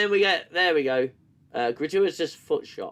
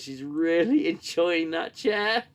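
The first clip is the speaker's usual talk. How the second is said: laughing; 3 semitones higher, 4 dB louder, slower than usual. Real, not acted. Laughing at the scene.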